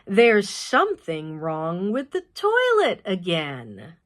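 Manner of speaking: slow, matter-of-fact announcement, lightly voiced boy; deadpan declaring. Little boy announcing bad news at breakfast, slow deadpan. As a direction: declare it slowly like it's no big deal. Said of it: "before declaring".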